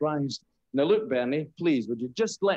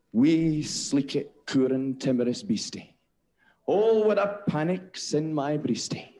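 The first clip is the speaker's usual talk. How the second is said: serious poem recital. Acted. Comic straight man reciting Burns to the audience. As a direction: recite it with solemn dignity. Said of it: "my serious poem".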